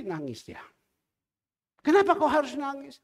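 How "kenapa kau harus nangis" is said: raised voice, puzzled; why are you crying, louder; asking loudly. Retold or imitated. (pendeta bertanya keras pada janda yang menangis)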